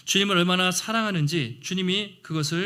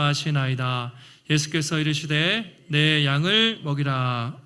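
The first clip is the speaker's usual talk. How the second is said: slow, measured scripture recitation; scripture reading. Acted. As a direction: read it together, slow and solemn. Congregation reading scripture aloud.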